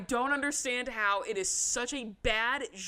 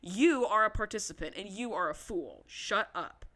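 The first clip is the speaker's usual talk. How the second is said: indignant scolding; 4 dB louder than usual. Acted. Podcaster telling the mother she is involved, indignant scolding. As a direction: lay down the law to her.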